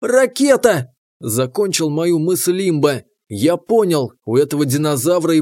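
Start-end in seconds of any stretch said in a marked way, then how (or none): 0.0-0.9 surprised. Acted. Sudden realisation, blurted out.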